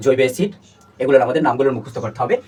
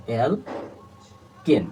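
অ্যালকেন stretched very slowly, syllable by syllable, softer; drawn-out syllables; 4 semitones lower, 6 dB quieter, much slower than usual. Shown as a demonstration. Teacher to students, splitting the word, very slow and drawn out. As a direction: spell out অ্যালকেন slowly so students hear its parts. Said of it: "দেখো সন্ধি বিচ্ছেদ হবে এরকম".

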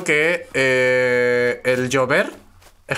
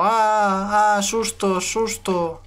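mock scared yelps; 4 semitones higher, 4 dB quieter, much slower than usual. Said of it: "y hago".

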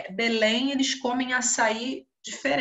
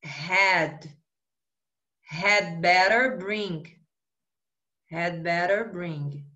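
slow dictation; 3 semitones lower, much slower than usual. Shown as a demonstration. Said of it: "Então, ficou, ó".

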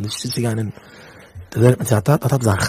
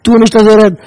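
loud, higher-pitched admonishment; raised-voice warning; impassioned rebuke; 5 semitones higher, 5 dB louder than usual. Real, not acted. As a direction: protest it forcefully. Repeats the rebuke at full voice.

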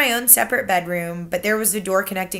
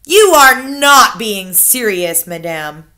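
stuffy hotel manager; 10 dB louder, slower than usual. Acted. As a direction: fuss over the word like an offended manager. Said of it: "Mister Stringer said".

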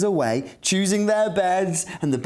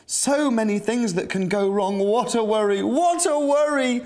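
worried Captain Weezer; 5 semitones higher than usual. Acted. Captain Weezer frets about dangers.

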